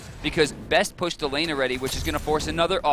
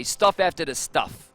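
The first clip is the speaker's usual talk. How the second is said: bad New York accent imitation; a weak attempt at a New York accent; slower than usual. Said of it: "Do you like my New York accent?".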